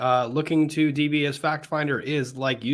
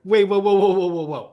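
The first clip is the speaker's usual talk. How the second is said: loud, high whoa whoa; excited; 5 semitones higher, 5 dB louder than usual. Real, not acted. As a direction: stop everyone in shock. Stopping the conversation in shock.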